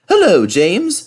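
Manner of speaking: high, friendly greeting; cheerful engine saying hello; kindly Thomas. A narrator's reading. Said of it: "said Thomas kindly".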